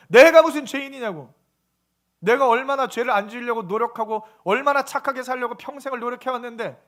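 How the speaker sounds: acted indignation, loud burst at the start; indignant protest. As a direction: protest like someone wrongly accused. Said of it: "화를 내요". (억울해서 화내는 척 항변)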